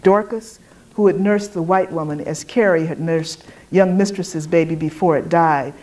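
plain reading voice

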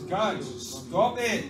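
slow, drawn-out halt; acted exasperated command; firm rebuke. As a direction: put a stop to the fretting. Jesus voiced halting the fretting.

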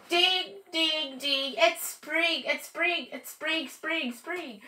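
high chanting celebration; excited. Acted. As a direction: ring in spring gleefully. Waking for spring.

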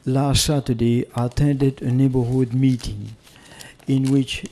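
speaking up for the room. Real, not acted. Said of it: "speak a little louder".

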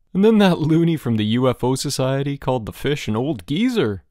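loud, high-pitched hilarity; screeching. A narrator's reading. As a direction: screech it gleefully, punching the opening. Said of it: "screeched Bruno".

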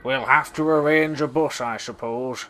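sigh. A narrator's reading. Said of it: "sighed the Fat Controller".

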